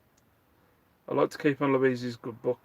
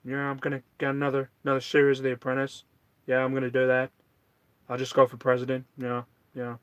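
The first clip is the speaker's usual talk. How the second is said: lightly voiced impression, quick phrases; a hint of an American president's voice; casual, half-hearted impersonation; Donald Trump; faster than usual. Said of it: "That's my Donald Trump impression".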